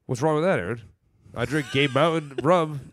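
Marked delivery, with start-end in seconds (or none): 1.3-2.9 laughing. Real, not acted. Laughs mid-line while joking.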